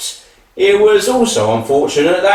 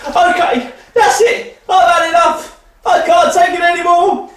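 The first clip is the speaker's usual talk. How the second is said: fed up; 5 semitones higher than usual. Acted. Son fed up at the farm.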